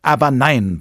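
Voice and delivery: high, loud exasperated bellow; exasperated professor's outburst; roared denial. A narrator's reading. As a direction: roar it at the candidate. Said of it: "brüllte der Professor".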